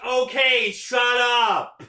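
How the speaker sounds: loud, high flustered yell; embarrassed shout. Retold or imitated. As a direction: cut them off, flustered. Character embarrassed cutting off.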